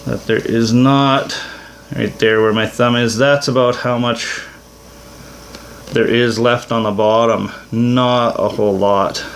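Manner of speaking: muffled behind a face mask; talking through a dust mask. Real, not acted. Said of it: "I'm wearing a mask at the moment if I sound funny".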